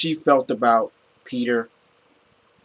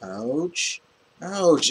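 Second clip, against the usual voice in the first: E.T. voice; 2 semitones higher, 4 dB quieter, much slower than usual. Retold or imitated. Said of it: "I'm doing E T".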